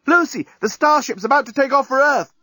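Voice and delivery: high, loud call from afar; shouting. Acted. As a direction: call her across the beach. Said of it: "shouting from the breakwater".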